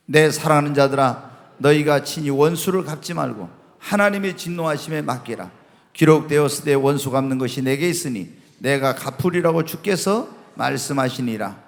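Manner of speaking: low, even Bible reading; scripture reading. Acted. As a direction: read the passage out for a congregation to follow. Reads Bible verses aloud to congregation.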